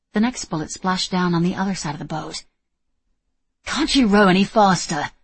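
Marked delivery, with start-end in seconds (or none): 3.6-5.1 whiny louder complaint; complaining. Acted. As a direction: grumble it under fire. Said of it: "Julian complained".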